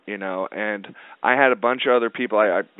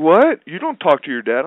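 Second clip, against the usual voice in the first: mock disbelief; 5 semitones higher, 5 dB louder than usual. Comic guy disbelieving.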